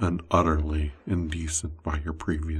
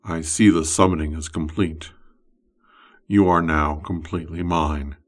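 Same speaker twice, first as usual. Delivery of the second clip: louder, possessive summoner speaking; wizard's voice; 4 dB louder than usual. Acted. Wizard claiming his summoned slave, louder possessive voice. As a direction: claim the summoned one as your own. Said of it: "You hear a voice saying".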